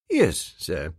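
low, calm manservant; unruffled valet answer; low butler voice. A narrator's reading. Jeeves' repeated low reply.

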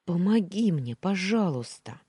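loud, high begging; a captive girl begging the maid for help; desperate plea. Acted. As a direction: plead with her, voice climbing.

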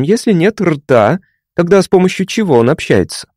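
doctor questioning the patient; doctor's voice. A narrator's reading. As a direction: ask like a curious psychiatrist.

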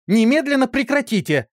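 high, loud stress on Немедленно. A narrator's reading. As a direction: bellow the order to stop the fight now. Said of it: "закричала Исидора".

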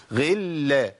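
غلا with a long-held lam; doubled lam. Shown as a demonstration. Teacher breaks down the verse, doubled lam. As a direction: lean slowly on the lam in غلا. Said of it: "أدي لام مشددة".

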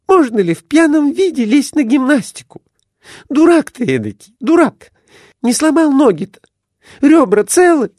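very high, loud shrill scolding wife. A narrator's reading. Wife scolds her drunk husband after his fall, very high and loud. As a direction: scold him like an angry wife.

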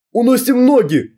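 high urgent shout; крик. A narrator's reading. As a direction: shout to flee at once. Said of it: "крикнул Юрка". (громкий крик: бежим!)

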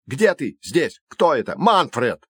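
confused shouting. A narrator's reading.

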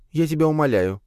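high scoffing spider voice; snorting Leya. Acted. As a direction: brush it off with a snort. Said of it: "фыркнула Лея".

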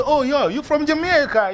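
high, exclaimed imitation; mock surprised guess. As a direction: act out a stranger guessing where someone's from. Imitates people guessing his origin.

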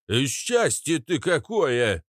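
slow, lilting gush; gushing exclamation. A narrator's reading. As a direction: coo effusively over someone. Katz gushes on in character.

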